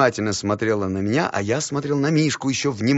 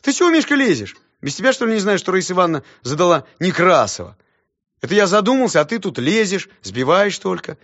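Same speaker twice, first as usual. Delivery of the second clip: put-on much higher, loud indignant boy; boy scolding friend; 6 semitones higher, 5 dB louder than usual. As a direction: brush off his friend.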